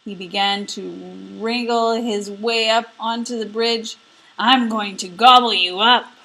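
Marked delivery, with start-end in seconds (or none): 4.4-6.1 loud, menacing troll voice; troll louder on gobble; greedy troll. Acted. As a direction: threaten to gobble him up. Troll threatens the goat.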